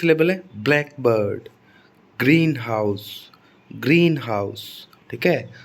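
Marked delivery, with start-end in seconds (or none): 0.6-4.9 ब्लैकबर्ड and ग्रीनहाउस stressed on the first word, BLACK and GREEN. Shown as a demonstration. Teacher modelling compound nouns, slow stress on the first word. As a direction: say ग्रीनहाउस slowly, leaning on GREEN. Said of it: "ग्रीन और ब्लैक पर stress आ रहा है".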